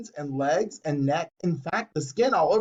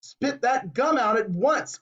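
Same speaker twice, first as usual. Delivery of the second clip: stern order; 7 semitones higher than usual. A narrator's reading. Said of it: "ordered Mister Beauregard".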